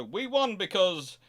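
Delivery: mock smug retort to the rival navy; gloating rebuttal. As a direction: lecture the loser on why you really won. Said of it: "the other side can go".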